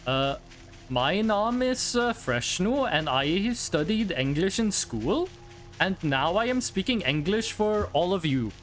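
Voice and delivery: mock a typical Norwegian speaking stiff school English; average Norwegian English. For chat, imitating a Norwegian speaking English. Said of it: "do an imitation of the average Norwegian speaking English".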